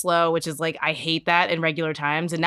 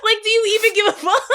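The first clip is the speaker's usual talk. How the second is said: high-pitched exasperated plea, half laughing; retold yelling; slower than usual. Patient in pain begging mom, high mock-outraged yell. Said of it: "I'm yelling at the tumor".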